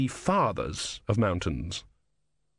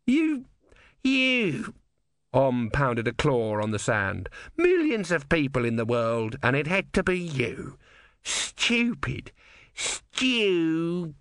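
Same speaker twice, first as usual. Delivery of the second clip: high squeaky exasperation; exasperated tortoise god; 4 semitones higher, slower than usual. A narrator's reading. Om ranting at Brother, high squeaky exasperation. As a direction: spit out stupid like a petty god.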